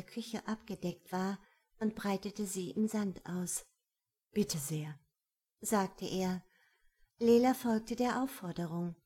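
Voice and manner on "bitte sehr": hushed gentleman's whisper; whispered offer. A narrator's reading. Kerim offers the blanket.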